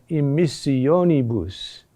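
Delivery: emissionibus with the accent on the o; stress on third-to-last syllable. Shown as a demonstration. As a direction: lean on o in emissionibus, let nibus fall. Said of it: "There, the accent is there".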